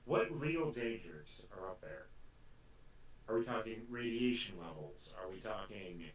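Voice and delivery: flat robot voice; deadpan robotic delivery. Acted. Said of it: "You can't tell by my robot voice?".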